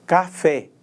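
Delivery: Café with the force on FÉ; stress on final syllable. Shown as a demonstration. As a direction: lean on the last syllable of Café. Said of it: "com maior intensidade, com mais força". (Café com força na última sílaba, FÉ)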